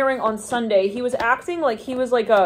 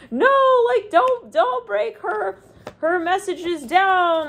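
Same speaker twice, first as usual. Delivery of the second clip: high mock protest; 10 semitones higher, much slower than usual. Someone begs others not to break down her messages, high protest. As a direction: squeak out the protest, then drag the end.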